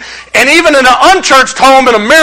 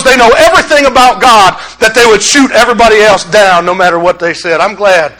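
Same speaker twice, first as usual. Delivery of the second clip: dry sarcasm, straight-faced; sarcastic. Acted. Preacher to the congregation, deadpan sarcastic. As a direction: say it meaning the opposite. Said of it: "sarcasm is my native tongue".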